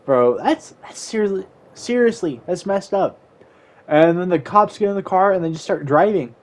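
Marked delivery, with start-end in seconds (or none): 0.1-3.2 imitated whiny protest, rising higher; mock tearful complaint. Kid in cop car to his laughing mom, mock tearful complaint. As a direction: complain as if crying, lightly hammed up. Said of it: "I'm, like, crying".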